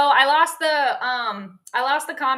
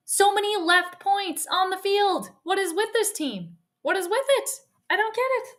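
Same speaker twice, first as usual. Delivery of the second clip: rising frustrated rant at the team; baffled, worked-up complaining; exasperated; 3 semitones higher than usual. Real, not acted.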